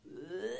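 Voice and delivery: low strained groan; imitated demon groan. Preacher imitates the spirit reacting to rebuke, low groan. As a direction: groan as if something is being forced out. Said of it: "얘가요, 그냥".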